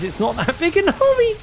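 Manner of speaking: baffled at the tiny army; surprised. Real, not acted. Caster surprised at army size.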